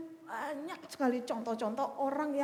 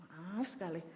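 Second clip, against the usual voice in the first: tender apology; 7 semitones lower, 10 dB quieter than usual. Retold or imitated. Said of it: "saya bilang".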